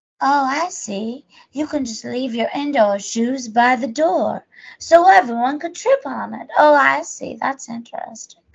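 put-on silly, girly voice. Speaker retells talking to kids at school in their go-to silly girl accent. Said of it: "That's my go-to silly girl accent".

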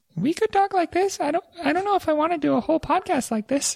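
fake, very high-pitched put-on voice. Joking after the other speaker suggests high-pitched voices: put-on high-pitched voice. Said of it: "we could make high pitched voices".

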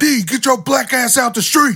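very high-pitched, shrill, loud carrying holler. Retelling a car ride where a man yells out the window: imitating someone yelling. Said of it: "he yells out the window".

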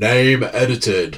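really loud, booming, over-the-top voice-over delivery. Retelling a podcast edit where a voice cuts in: imitating Bert speaking really loud. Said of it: "just really loud".

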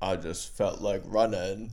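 very slow, deep, drawn-out low delivery. Recalling how the podcast started with a Forrest Gump impression. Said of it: "impersonating Forrest Gump".

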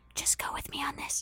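hushed whisper, close in, right into an ear. Playing a character who grabs another by the shoulders: whispering into an ear. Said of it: "whisper into your ear".

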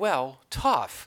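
plain

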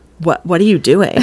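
plain

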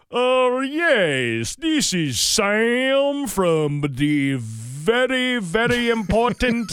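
Texas drawl with Indian accent. Acting out a caller on the phone, in a country texas drawl with indian accent. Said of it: "using like a country Texas drawl. With like an accent from somebody who's from India".

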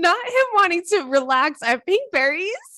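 words bubbling out through very high, loud laughter. Reacting to a story about him, laughing while talking. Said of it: "there's a tear in my eye".

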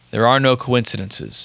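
ordinary delivery

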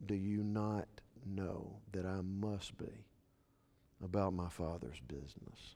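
hushed, very quiet, gentle, kind, respectful tone. Speaker retelling a son answering his worried mother: acting out a kind, respectful reply. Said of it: "kindly said and respectfully said".

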